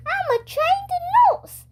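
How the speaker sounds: she's sure she knows best; lightly voiced confident school nurse; nurse voice, insistent. A narrator's reading.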